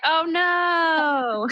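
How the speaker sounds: high, laughing fake "oh no"; laughing mock dismay. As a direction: play it as a delighted fake gasp. Acted reaction to being laid off.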